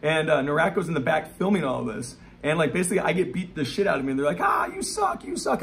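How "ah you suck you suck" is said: high, shrill-pitched retold shout of kids; mock kid yell. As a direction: imitate kids yelling taunts. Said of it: "they're yelling stuff".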